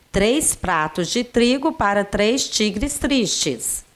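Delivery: Três pratos de trigo said slowly, each word clear; slow tongue twister. Shown as a demonstration.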